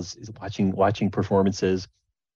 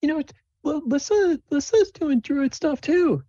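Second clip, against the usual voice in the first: put-on much higher, slow, shy hopeful girl asking a favour; high timid girlish voice; Sable's voice. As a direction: stammer it out like a nervous kid.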